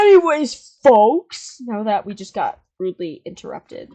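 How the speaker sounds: announcer voice. Acted. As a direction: play the showman host. Resumes as host.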